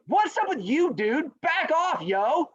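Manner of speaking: put-on high, loud teen confrontation; hammed-up Gen Z challenge; Gen Z talk. Rabbit to turtle who bumped him, Gen Z talk. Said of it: "that's my Gen Z talk".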